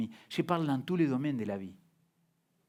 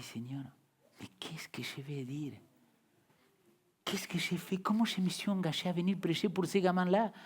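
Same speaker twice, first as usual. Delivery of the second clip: prière angoissée à mi-voix; 2 semitones higher, 7 dB quieter than usual. Retold or imitated. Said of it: "J'ai dit".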